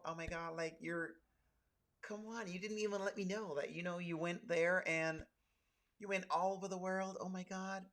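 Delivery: soft, pleading white American impression. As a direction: gush in a mock white American accent, dismayed and hushed. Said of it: "I put on my white voice".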